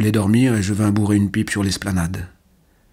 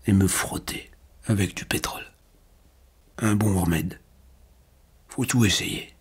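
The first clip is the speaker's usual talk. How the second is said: faint dying voice; 3 dB quieter than usual. A narrator's reading. Paralysed old man asking Jean to lift him, faint. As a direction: let the words thin out to almost nothing. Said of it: "de sa voix de plus en plus claire".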